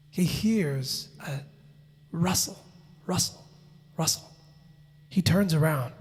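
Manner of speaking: slow, low storytelling with long pauses; hushed suspense. A narrator's reading. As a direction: draw out each word to build suspense. Suspense as the bushes part.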